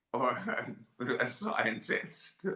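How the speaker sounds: laughing through the words; real chuckle breaking up the line. Real, not acted. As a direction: softly giggle at the absurd idea. Laughing at own unlikely career options.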